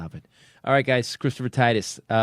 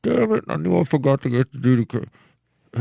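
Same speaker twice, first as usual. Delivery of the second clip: mock exasperation; 3 semitones higher, 6 dB louder than usual. Fallen runner berating herself on the track, mock exasperated. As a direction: play the fallen runner cursing the oversight. Acts out runner lying face down.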